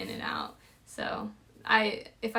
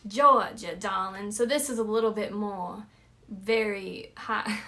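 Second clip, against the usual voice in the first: Georgia accent. Shown as a demonstration. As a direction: put on a Savannah, Georgia accent. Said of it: "this is my Georgian accent".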